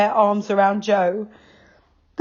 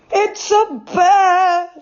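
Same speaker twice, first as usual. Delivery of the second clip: mildly frightened, slow; whisper-shocked discovery; half frightened; 13 semitones higher, 5 dB louder, much slower than usual. A narrator's reading. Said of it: "half frightened".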